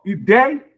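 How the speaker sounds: "ideia" sounded out toward its final A; vowels separated. Shown as a demonstration. Teacher pointing out a hiatus, vowels separated. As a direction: say "ideia" carefully, parting the I from the A. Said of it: "separa o I do A".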